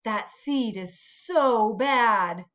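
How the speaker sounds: slow, lightly voiced other seeds; gossiping seeds. Seed imitating the other seeds gossiping, mild slow tut. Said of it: "they look at me and they say".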